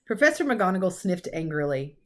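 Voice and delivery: even storytelling voice; story narration. A narrator's reading. Narrator telling of the professor's sniff, calm storytelling. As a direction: read it like a bedtime chapter.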